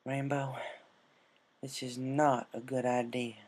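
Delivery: soft, slow hushed words; whispered. Acted. Applejack by the sleeping Pegasus, whispering softly. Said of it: "she whispered".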